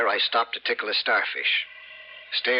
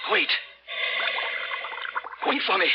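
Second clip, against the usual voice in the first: pleading call; 10 semitones higher than usual. Acted. Diver calling after the vanishing girl.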